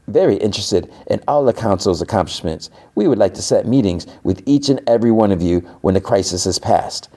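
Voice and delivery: a hint of a bullying official; retold intimidating aide.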